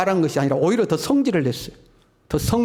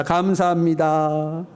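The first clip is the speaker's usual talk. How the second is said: slow, heartfelt thanks to a neighbour; warm greeting; much slower than usual. Shown as a demonstration. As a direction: greet the person beside you kindly. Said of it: "우리 옆 사람과 인사합시다".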